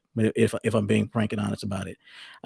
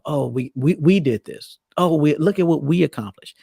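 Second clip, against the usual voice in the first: a lightly acted, higher, proud "we did this"; mock excited; 4 semitones higher than usual. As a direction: play a partner cheering over shared wins, playfully. Imitating a partner proud of teamwork.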